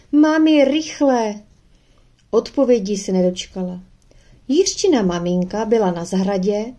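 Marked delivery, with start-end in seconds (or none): 0.1-1.4 high, loud urgent call; shouting for mum. A narrator's reading. Girl shouting home for her mother, urgent loud call. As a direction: yell it out to the garden. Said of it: "s křikem".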